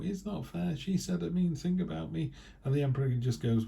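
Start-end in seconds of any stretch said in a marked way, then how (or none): 0.0-2.3 high, whiny complaining voice; whinge. Retold or imitated. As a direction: play a sulky child telling tales. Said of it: "someone might whinge to the Emperor".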